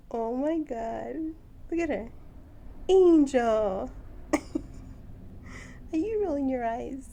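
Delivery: loud, high amused disbelief; laughing loudly. Real, not acted. Owner laughing at her bird's eye-roll. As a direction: crack up at the bird's attitude.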